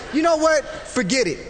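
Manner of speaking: fed-up shout. Retold or imitated. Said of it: "I wanted to just walk out".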